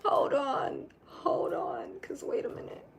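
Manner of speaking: high, thin, breath-starved words; winded after an outburst; catching breath. Real, not acted. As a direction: squeeze it out while recovering from a laughing wail. Recovering from laughing outburst.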